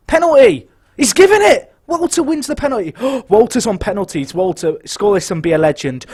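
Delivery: screaming high and loud with joy; ecstatic shout. Real, not acted. Streamer celebrating his striker winning a penalty, euphoric screaming. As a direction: explode with real excitement.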